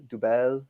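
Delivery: "double" as doo-BELL, with an EH ending; alternative pronunciation. Shown as a demonstration. Brewer trying out another Belgian beer pronunciation, "double" as doo-BELL. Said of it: "depending on how you pronounce".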